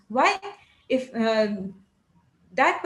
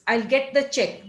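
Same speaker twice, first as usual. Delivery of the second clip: Marathi English accent. Shown as a demonstration. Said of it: "they are into the habit of speaking like this".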